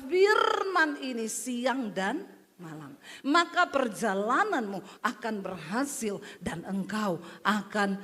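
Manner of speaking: slow, measured divine instruction; solemn voice of God. Acted. God slowly reassuring Joshua before he leads Israel. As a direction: lay out the promise slowly and gravely.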